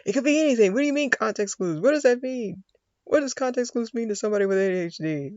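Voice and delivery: high, loud incredulous rant; exasperated. Real, not acted. A learner ranting about context clues, high and incredulous. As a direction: throw up your hands at it.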